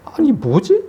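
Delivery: high-pitched baffled question, recalling a reaction; wait, what is going on?; puzzled disbelief. Retold or imitated. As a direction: relive being taken aback, voice jumping up. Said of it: "이게 의아하기도 하고".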